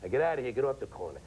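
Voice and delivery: lightly voiced older Irish New York guy; hint at a neighborhood veteran shooing kids; older war veteran. Older war veteran to kids on the corner, lightly imitated. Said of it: "in the Second World War talk like this".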